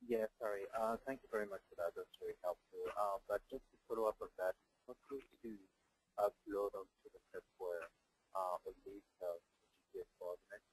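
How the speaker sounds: very quiet, faint voice; barely audible. Real, not acted. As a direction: speak softly, far from the mic. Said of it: "your voice is very quiet".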